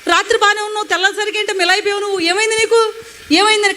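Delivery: the doctor panicking at the sight of her; alarmed doctor. Retold or imitated. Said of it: "కంగారుకు వచ్చేసి doctor గారు". (కంగారుపడ్డ doctor లా, ఎత్తైన గొంతుతో ఆందోళనగా)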